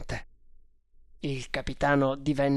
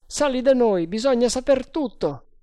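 high, loud summons; calling down; 9 semitones higher, 5 dB louder than usual. A narrator's reading. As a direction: call them up with a raised voice. Sergente chiama dall'alto. (richiamo acuto e forte)

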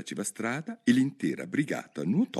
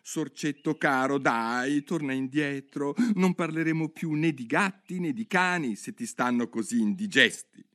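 sweetly calling; 6 semitones higher than usual. Acted. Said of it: "lo chiamò con dolcezza".

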